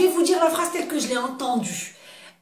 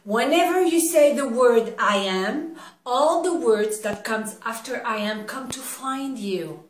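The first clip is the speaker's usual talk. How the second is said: slow, weighty sermon delivery in English; a light imitation of an American preacher; preacher's energy; slower than usual. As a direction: deliver it like a preacher to a huge crowd. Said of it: "avec l'énergie que je l'ai entendue".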